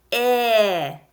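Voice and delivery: "I" said as a held ih; isolated short vowel, not the letter name; short I sound. Shown as a demonstration. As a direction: stretch the ih of sit for "I". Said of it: "what letter makes the".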